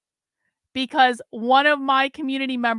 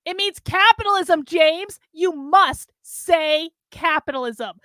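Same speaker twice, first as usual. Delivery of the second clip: higher, louder desperate yell; screaming; 4 semitones higher, 4 dB louder than usual. Acted. Carlin screams at James while crying. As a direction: scream it at him through tears. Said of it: "Carlin screamed".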